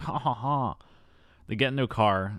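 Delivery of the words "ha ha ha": mock "ha, ha, ha" laugh; imitated laugh. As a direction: fake a sneaky chuckle. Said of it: "being like".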